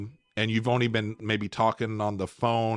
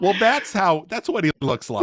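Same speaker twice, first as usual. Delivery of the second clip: mock viewer exclaiming; 9 semitones higher, 6 dB louder than usual. Imagined YouTube viewer.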